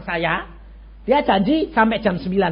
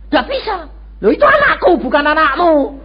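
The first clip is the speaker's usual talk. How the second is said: heated retold protest; 5 semitones higher, 3 dB louder than usual. Arguing with the doctor at hospital.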